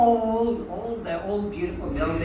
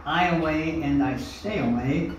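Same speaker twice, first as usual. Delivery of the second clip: southern Iowa drawl. Retold or imitated. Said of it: "as they say in southern Iowa".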